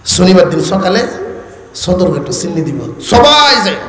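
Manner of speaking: Old Dhaka mimicry, sh turned to s; Old Dhaka accent. Shown as a demonstration. Preacher repeats the locals' announcement, Old Dhaka accent. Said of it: "স উচ্চারণ করে".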